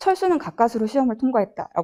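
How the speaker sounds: plain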